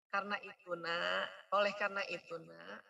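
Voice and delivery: soft, patient parent tone. Shown as a demonstration. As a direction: ease it down gently to the child. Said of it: "Itu lebih soft".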